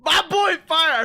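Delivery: high, loud, slow greeting; happy shout-out to moderator Fire; excited shout-out. Real, not acted. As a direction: greet a friend with delight.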